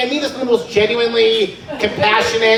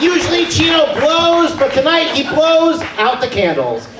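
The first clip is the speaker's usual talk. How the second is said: birthday hype; 6 semitones higher, slower than usual. Real, not acted. Comic hyping Chino's birthday to the crowd. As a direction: announce it big.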